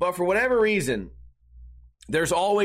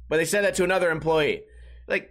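ordinary delivery

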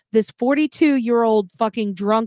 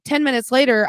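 ordinary talk, nothing marked

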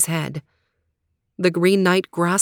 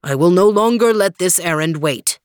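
knight voice; 3 dB louder than usual. Acted. Green Knight.

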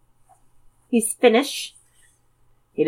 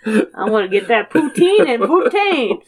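put-on laughing Canadian accent; 2 semitones higher than usual. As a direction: say poutine like a Canadian. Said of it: "in the Canadian accent".

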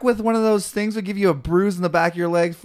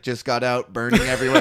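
pained friend; 2 semitones lower than usual. Retold or imitated. Friend in pain from spray.

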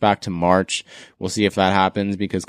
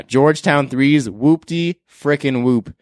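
excited verdict; 5 semitones higher, 3 dB louder, slower than usual. Real, not acted. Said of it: "my first whoop-de-whoop of the year".

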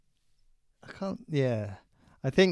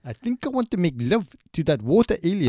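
put-on Pistorius accent; 2 semitones higher than usual. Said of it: "I may have thrown you with my accent".

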